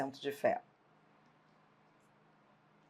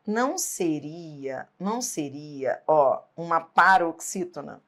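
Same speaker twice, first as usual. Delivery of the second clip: doubtful student. Retold or imitated. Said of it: "vai dizer assim".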